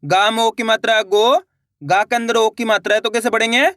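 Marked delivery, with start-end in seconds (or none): 0.0-1.4 syllable-by-syllable reading. Shown as a demonstration. Teacher showing learners how to read each letter, syllable by syllable. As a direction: spell it out, stretching the final गो upward. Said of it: "एक अक्षर का उच्चारण करके".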